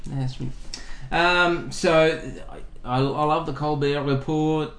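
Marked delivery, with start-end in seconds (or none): 3.5-4.7 Colbert Report said the French way; French pronunciation. Shown as a demonstration. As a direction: Colbert Report with silent t's, French style. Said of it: "Did you just try to speak French?".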